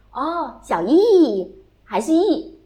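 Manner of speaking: 小易 slowed right down, 易 instead of 玉; drawn-out 小易 with the yi vowel. Retold or imitated. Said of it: "他还是发易音".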